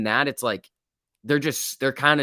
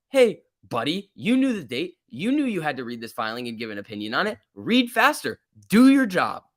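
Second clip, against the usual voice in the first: scolding; 5 semitones higher than usual. Real, not acted. Scolding Hester in rant.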